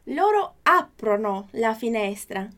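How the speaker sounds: slow, clear Italian model reading; careful teacher pronunciation; slow model sentence. Shown as a demonstration. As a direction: read it slowly for students to repeat. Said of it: "Próxima frase".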